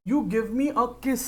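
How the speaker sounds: very slow, stretched "You give me a kiss"; slow, playful teasing ask; drawn-out lover's plea. Acted. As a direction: drag each word out like a sweet request. Babu asking baby, acted.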